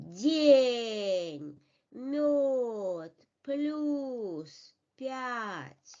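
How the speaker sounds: "день, мёд, плюс пять" with palatalized first consonants, vowels held long; drawn-out teaching demo of "день, мёд, плюс пять", consonants soft. Shown as a demonstration. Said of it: "pronounce the soft consonants".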